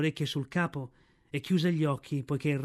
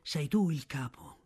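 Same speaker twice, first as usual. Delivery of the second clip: hushed; 4 dB quieter, slower than usual. A narrator's reading. Bagheera whispering to Mowgli amid the fire, hushed. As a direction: breathe it, barely voiced. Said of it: "disse Bagheera in tono sommesso".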